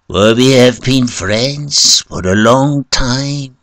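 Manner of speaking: high, insistent plea; pained cry. A narrator's reading. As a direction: cry out an appeal to an old friend. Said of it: "uttered a painful cry".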